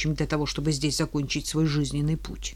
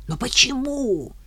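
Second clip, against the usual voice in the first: insistent; 8 semitones higher than usual. Acted. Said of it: "не унималась пиявка".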